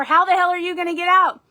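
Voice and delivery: storyteller's rising alarm; dramatic build. Acted. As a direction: make them feel trapped. Dramatic tower escape story.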